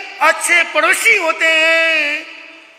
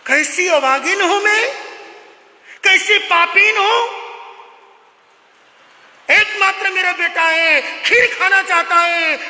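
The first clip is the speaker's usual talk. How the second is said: mock-tearful mother's cry, pitched higher; wailing lament; 4 semitones higher than usual. Poor mother bewailing to God she cannot feed her son, mock-tearful wail. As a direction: cry out in self-pity, half-acted. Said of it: "जोर जोर से रो रही है।".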